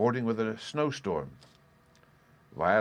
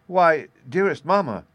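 put-on higher, louder, amused child's voice; mildly amused daughter; 8 semitones higher, 9 dB louder than usual. A narrator's reading. Daughter answers mother who missed something very plain, mildly amused. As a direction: answer like a girl tickled by mamma's question. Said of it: "laughing to think that her mother did not comprehend".

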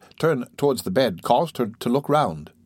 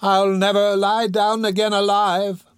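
high, slow, strained deathbed cry; struggling dying woman; 8 semitones higher than usual. A narrator's reading. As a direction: protest high and drawn out, struggling to speak.

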